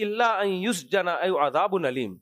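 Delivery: Quranic recitation. Acted. Preacher quotes Quranic verse.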